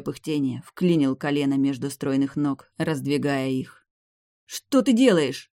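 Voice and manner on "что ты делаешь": much higher, slow indignant cry; outraged at what he dares. A narrator's reading. Vampiress indignant at the hero's advances. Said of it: "возмутилась вампиресса".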